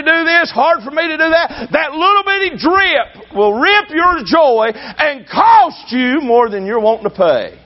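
slow preached shout about a little drip; preaching shout. Real, not acted. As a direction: hammer the warning home slowly. Preacher warns the congregation.

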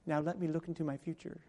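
mimicking his wife through a laugh; a chuckling, teasing fortune-teller line; playful wife, laughing. Pastor imitating his wife reading his forehead, laughing. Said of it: "she goes".

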